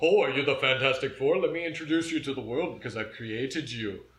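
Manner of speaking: loud, booming villain taunting each hero team in turn; Doctor Doom impression. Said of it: "That was my best Doctor Doom".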